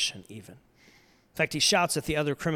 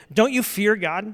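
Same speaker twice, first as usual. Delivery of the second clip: protesting; 5 semitones higher, 4 dB louder, slower than usual. Retold or imitated. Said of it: "One of the criminals protested".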